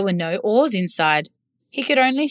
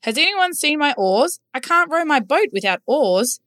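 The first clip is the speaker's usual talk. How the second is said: high, worried rower; rower character; 7 semitones higher than usual. A narrator's reading. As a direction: ask around anxiously, lightly voiced. Rower voiced.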